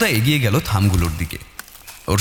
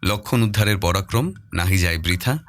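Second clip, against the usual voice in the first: deliberate verse recital, lower pitch; solemn riddle recitation; 3 semitones lower than usual. Acted. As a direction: intone the old riddle like a chant. Riddle read from the diary.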